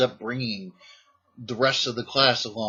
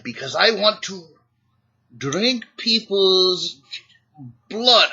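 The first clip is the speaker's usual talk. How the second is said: higher and louder, slow and drawn out; sly kid; 8 semitones higher, 6 dB louder, slower than usual. Retold or imitated. Retelling the grinning kid explaining to the teacher, high and slow. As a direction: savour each word like a little vampire. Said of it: "He said".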